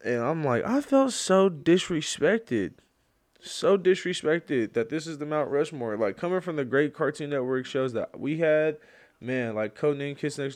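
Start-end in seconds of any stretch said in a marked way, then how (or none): 0.7-6.0 loud, high mock outrage, drawn out; hammed-up indignation. Fan protesting a Cartoon Network Mount Rushmore, hammed-up indignation. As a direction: protest like a wronged fan, playfully overdone.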